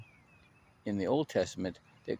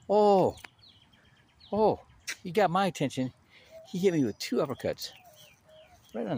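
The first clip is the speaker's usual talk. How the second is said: Oh, oh blurted much higher and louder; excited outburst; 9 semitones higher, 6 dB louder than usual. Real, not acted. Telling the congregation he got hit, much higher and louder. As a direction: burst out, then ride the laugh of it. Recalling getting hit hard.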